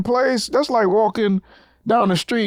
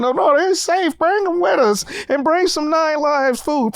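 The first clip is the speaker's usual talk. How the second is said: higher-pitched dismissive assurance; mock reassurance; 5 semitones higher than usual. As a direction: wave the worry away in a put-on higher voice. Mocks crew reassuring about cat.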